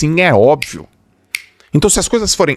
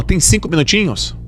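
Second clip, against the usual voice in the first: mais agudo, pedindo com jeitinho; colega pedindo um favor; 7 semitones higher than usual. Retold or imitated. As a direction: imita a colega pedindo só um minutinho. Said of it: "E aí ela continua". (pedido agudo da colega insistente)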